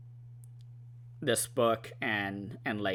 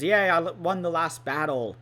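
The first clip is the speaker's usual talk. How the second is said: higher-pitched retold cheer; mock cheering; 7 semitones higher, 4 dB louder than usual. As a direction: play a character's victory cry, lightly hammed up. Acted quote of Rand's celebration.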